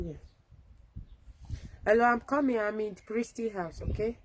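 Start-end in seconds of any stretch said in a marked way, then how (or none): 1.9-4.2 calling out. Real, not acted. Calling out to someone nearby.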